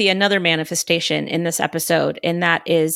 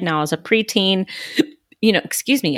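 talking through hiccups; words broken by hiccups. Real, not acted. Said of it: "I have hiccups real bad right now".

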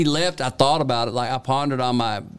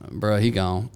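slangy answer; 4 semitones lower, slower than usual. Retold or imitated. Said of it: "I was like".

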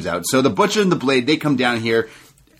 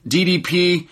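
higher, slowed heel threat; lightly voiced MJF threat; imitating MJF; 4 semitones higher than usual. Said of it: "M J F says".

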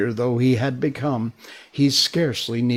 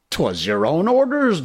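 faltering; 7 semitones higher, 5 dB louder than usual. Acted. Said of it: "the boatswain faltered".

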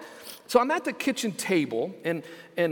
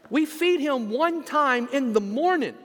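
retold exasperated protest; 5 semitones higher than usual. Husband protests to wife, retold.

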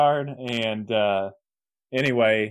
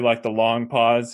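long pause; 4 dB louder, slower than usual. Shown as a demonstration. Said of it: "he'll do".

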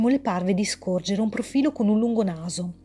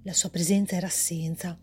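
measured, even storyteller reading; story narration; 2 semitones lower than usual. A narrator's reading. Author reading her story aloud, calm narration. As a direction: read the tale calmly to listeners.

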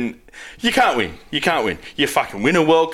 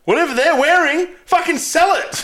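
higher, pleading call out; worked-up demand to the kit makers; excited plea; 9 semitones higher than usual. Real, not acted. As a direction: beg them to just sell it.

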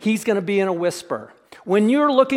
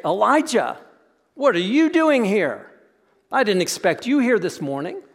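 offhand "what are you doing here?", as if bumping into him by chance; lightly surprised, chatty, not searching; casual surprised greeting. Retold or imitated. God bumping into Elijah in the cave, mild casual surprise. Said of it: "he doesn't go into the cave and say".

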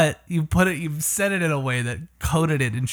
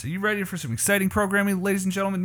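fast, higher, hyped salesman pitch; car salesman voice; 5 semitones higher, faster than usual. Pretend. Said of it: "it's my car salesman voice".

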